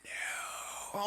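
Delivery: breathless whispered dismay. Retold or imitated. Dad watching his son get rejected, whispering. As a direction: whisper it under your breath. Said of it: "I'm like".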